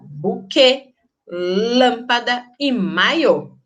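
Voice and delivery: "Buquê, lâmpada e maiô" slow, with closed ê, â, ô; closed stressed vowels. Shown as a demonstration. Teacher giving circumflex examples, closed stressed vowels. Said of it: "ele é mais fechado".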